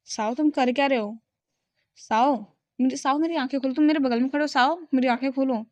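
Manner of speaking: mildly nervous pleading; a touch of nerves as he begs to see; nervous plea to his friend, lightly voiced; a bit nervous. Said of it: "थोड़ा सा nervous होकर कहता है".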